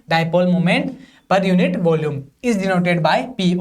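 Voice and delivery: slow, even reading for students to copy; slow dictation. Shown as a demonstration. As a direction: dictate each word slowly so they can write. Finishing the dictated definition. (धीमे-धीमे notes लिखवाना)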